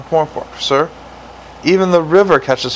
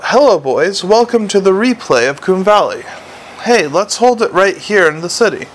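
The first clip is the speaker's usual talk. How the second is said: a raised, hammed-up hail to the crowd; mock shout; 5 semitones higher than usual. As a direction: call it out like through a megaphone, half joking.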